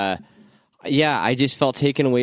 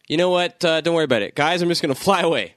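mock villain voice; 6 semitones higher, faster than usual. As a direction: brush it off as a silly villain.

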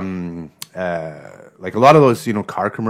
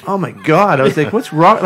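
panicked shout; 6 semitones higher, 5 dB louder than usual. Retold or imitated. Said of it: "So I'm like".

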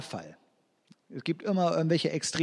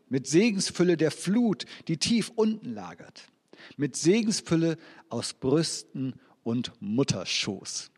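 scripture reading. Acted. Preacher reads Genesis blessing.

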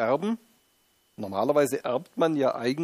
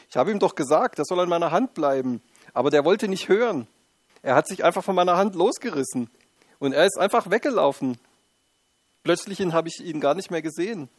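higher, excited, defensive mother; flustered mother; 4 semitones higher than usual. Pretend. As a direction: rattle off excuses, a bit flustered. Mother justifies herself at desk.

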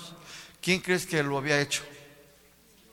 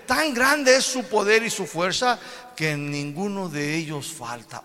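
God commanding them to look up, high and loud; 7 semitones higher, 4 dB louder than usual. Acted. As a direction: proclaim as God, grand and loud. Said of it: "Versículo veintiséis dice".

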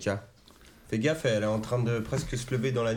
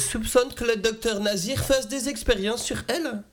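slow, high, laughing through it; 10 semitones higher, slower than usual. Real, not acted. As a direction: giggle out the theory slowly. Joking theory about the film.

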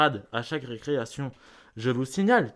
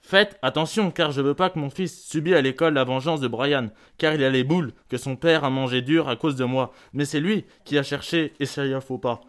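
forceful warning; 4 dB louder than usual. Acted. Parent warns teacher after a fight.

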